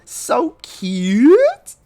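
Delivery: gushing. Acted. Gushing over cupcakes.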